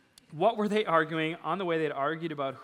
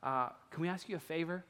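softer, quick sneaky request; secretive hush; 7 dB quieter than usual. Retold or imitated. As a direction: sidle up and ask on the quiet. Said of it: "it's like a secret little thing".

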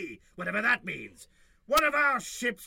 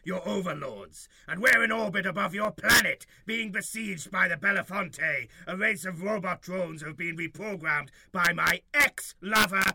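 pompous alien leader voice; alien overlord; 3 semitones lower than usual. Acted. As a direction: proclaim like a grand alien ruler.

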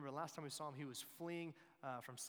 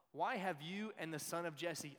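louder, mildly indignant king's demand; angry demand; 3 semitones higher, 6 dB louder than usual. Acted. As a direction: read it as an accusing question. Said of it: "he's so mad at David".

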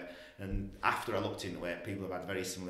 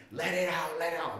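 high, louder mock yell; in-your-face urging; 8 semitones higher, 5 dB louder than usual. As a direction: imitate her urging it out, raised pitch and volume. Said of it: "she's like, in my face".

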